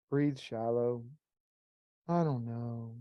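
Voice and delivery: low soft monotone mumble; drained, lifeless voice; depressed monotone. Shown as a demonstration. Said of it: "or am I just monotone?".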